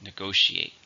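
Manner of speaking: "Negotiate" with GO stressed; stress on second syllable. Shown as a demonstration. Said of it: "Stress on the second".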